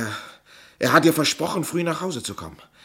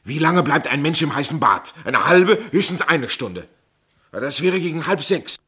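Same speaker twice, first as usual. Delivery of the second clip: heated argument; 7 dB louder than usual. Acted. Suspect arguing his case heatedly.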